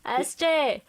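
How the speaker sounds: amateur Welsh accent, near laughter. Shown as a demonstration. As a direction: tease in a put-on Welsh accent. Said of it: "Your Welsh is".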